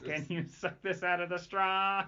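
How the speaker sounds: Coneheads alien voice. Pretend. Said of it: "you sound like the Coneheads".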